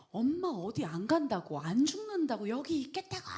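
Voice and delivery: half-shouting plea of a mother near her wits' end; desperate retold cry; frantic pleading. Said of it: "막 미치기 직전에 제가 했던 말이".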